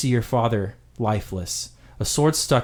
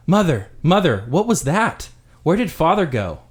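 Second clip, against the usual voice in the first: put-on high, anxious little boys' voices; frightened children; 5 semitones higher than usual. Boys woken by the crash asking mother, high and scared. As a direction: call out for mother like scared kids.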